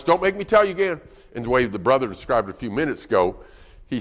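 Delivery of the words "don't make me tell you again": louder, higher parental warning; acted fed-up parent; raised voice. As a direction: raise your voice in exasperated warning. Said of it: "you keep raising your voice".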